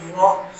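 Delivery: "را" with a full, heavy r; thick, emphatic "را". Shown as a demonstration. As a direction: demonstrate "را" as a thick sound. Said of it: "یہاں پر بھی موٹا پڑیں گے".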